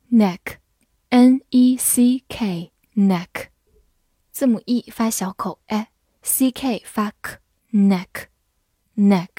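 neck spelled out, with a short open E and final K; sounding out. Shown as a demonstration. Teacher breaks down a new word for learners, sounding out. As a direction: sound out "neck" slowly, letters then sounds.

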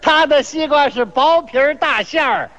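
hawker's chant with held words; mock vendor's cry. Seller overpraising his rival's melon, mock vendor's cry. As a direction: call it out as market praise. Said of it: "互相夸".

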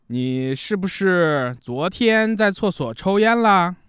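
slow, with long pauses between phrases; slow scolding. Shown as a demonstration. Spouse raising the smoking complaint, slow and paused. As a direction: stress each word, take your time. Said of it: "这是慢速的".

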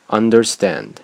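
"understand" with a stop after "under", then firm "stand"; pause before stress. Shown as a demonstration. Teacher giving a practice word, "understand" split by a pause. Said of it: "可以多拿几个单词练练".

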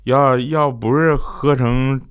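put-on very slow, stammering drunken husband. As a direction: drag and repeat words like a man far gone in drink. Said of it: "喝得醉醺醺的". (模仿醉汉拖长声音、结结巴巴地说)

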